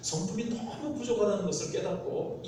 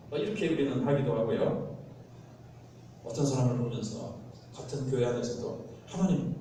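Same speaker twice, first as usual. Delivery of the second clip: usual speaking voice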